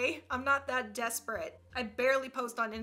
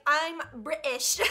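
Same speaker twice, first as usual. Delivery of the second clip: drawn-out British caricature, T dropped; mock British accent; 4 dB louder, slower than usual. Teasing how British people talk, mock British accent. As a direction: exaggerate a British accent slowly. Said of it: "British people be like".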